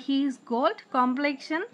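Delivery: slow, syllables pulled apart; slow syllable reading. Shown as a demonstration. Teacher breaking a word into syllables, slow. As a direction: split the word into its beats. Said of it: "দুইটা ভাগে".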